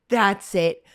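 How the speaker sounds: cop's slow, loud barked arrest; mock cop yell. Cop barks at two girls in the car, mock yell. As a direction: bark it out like an angry cop. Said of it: "actually screaming at us".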